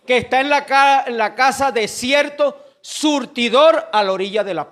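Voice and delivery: loud preacher's delivery with drawn-out key words; preaching. Real, not acted. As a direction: proclaim the Bible story to the congregation. Preaches the story loudly.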